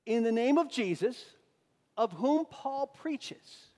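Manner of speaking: loud, high, drawn-out incantation; hammed-up ritual pronouncement, stretched slow; imitated exorcist command. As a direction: intone it like an amateur casting out demons. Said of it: "this is how they would say it".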